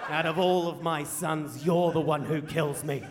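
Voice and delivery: slow, loud, drawn-out disbelief; acted wounded dad, stretching the words in disgust; disgusted tirade. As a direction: spell out each insult with heavy scorn. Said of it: "Dad continues this tirade of abuse".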